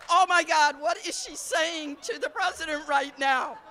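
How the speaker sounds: half-laughing panic at your mom; laughing disbelief. Retold or imitated. Daughter mortified by mom talking to the president, laughing loudly. Speaker's shocked reaction to mom.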